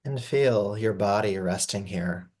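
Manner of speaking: calm, unhurried guiding voice with long pauses; gentle yoga nidra guidance, even and spacious; guided meditation. Acted. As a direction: ease them into rest, phrase by phrase. Leads a yoga nidra rest.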